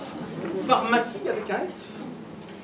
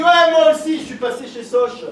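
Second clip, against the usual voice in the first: startled high reply; 7 semitones higher, 10 dB louder than usual. Retold or imitated. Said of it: "il a dit".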